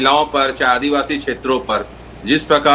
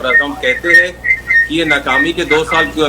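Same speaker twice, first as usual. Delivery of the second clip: echoey mic, voice bouncing back; speaking into an echoing line. Real, not acted. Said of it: "आवाज आपकी इको आ रही है". (इको वाली आवाज़)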